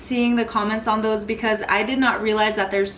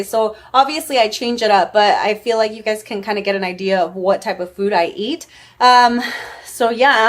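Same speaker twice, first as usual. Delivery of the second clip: breathless, talking fast and loud; puffing between words after a workout; out of breath; 4 dB louder than usual. Real, not acted. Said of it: "I'm super out of breath".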